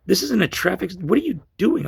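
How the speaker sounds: high-pitched retold objection; agitated protest. Man objecting to special police at his truck, agitated. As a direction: protest in rattled disbelief, voice jumping up.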